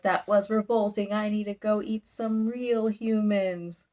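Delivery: mildly theatrical devil, drawn out at the end; bat devil. Retold or imitated. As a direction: declaim it with hammy disgust. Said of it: "they just talk so funny".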